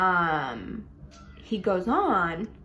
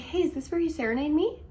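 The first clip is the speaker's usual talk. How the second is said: higher, teasing call from the balcony; playful call down; 8 semitones higher than usual. Retold or imitated. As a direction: tease him from above. Calling down from balcony.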